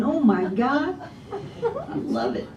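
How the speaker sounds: gushing and breaking into a laugh; delighted laugh. Real, not acted. Telling the host how charming the man was, laughing. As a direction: melt into laughter at the end.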